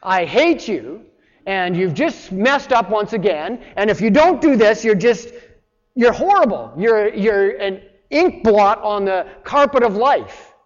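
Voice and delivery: mock a harsh inner accuser scolding; condemning accuser. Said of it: "And it doesn't come with".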